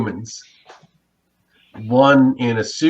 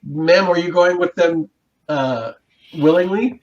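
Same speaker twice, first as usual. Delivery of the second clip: higher, polite-but-firm officer voice; officer asking; 4 semitones higher than usual. Acted. Officer asking the pregnant woman if she goes willingly, higher. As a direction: check calmly if she's being taken.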